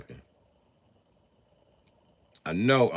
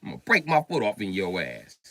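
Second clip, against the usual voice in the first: quick mock threat, starting loud; Eddie Murphy; 4 semitones higher, 5 dB louder, faster than usual. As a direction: rattle off a comic's threat in imitation. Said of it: "that's the only Eddie I got".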